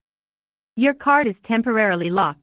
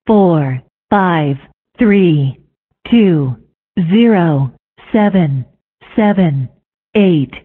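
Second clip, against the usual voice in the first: spliced digit readout; 2 semitones lower, much slower than usual. Acted. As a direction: separate recorded number clips, each falling. Card digits read one by one.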